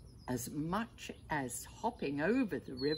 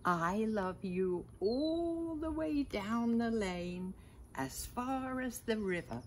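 eager cry; 6 semitones higher than usual. A narrator's reading. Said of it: "cried Little Nut Brown Hair".

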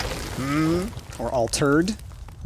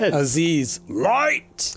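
movie quote impression; 3 semitones higher, much slower than usual. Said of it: "We need an Aziz command".

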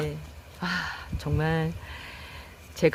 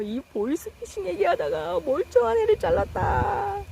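real dismay; 11 semitones higher than usual. Real, not acted. Cut plant by accident now.

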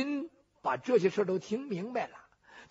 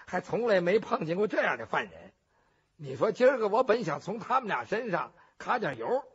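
grumbling to himself. Acted. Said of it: "猪八皮心想".

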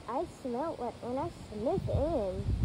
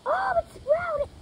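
mock surprise; 9 dB louder, slower than usual. Mock delight at seed.

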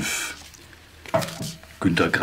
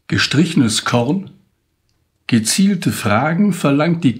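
poem recital. Acted. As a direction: carry the verses with a lifted, rhythmic recital voice. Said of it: "Und ich trage Ihnen das Gedicht jetzt vor". (feierlicher Gedichtvortrag)

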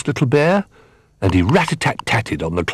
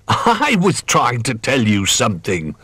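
laughing; 4 semitones higher than usual. Acted. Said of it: "laughed Mister Doll".

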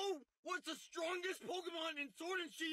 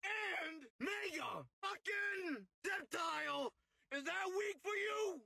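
angry rant. Real, not acted. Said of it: "He's pissed".

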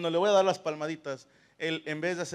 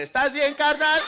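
much higher, louder mock-concerned question; mock caring; 9 semitones higher, 10 dB louder, slower than usual. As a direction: ham up a fake caring check-in.

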